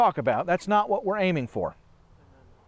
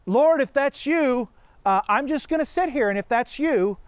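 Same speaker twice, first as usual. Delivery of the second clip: mock lazy believer. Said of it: "how would the second ditch respond".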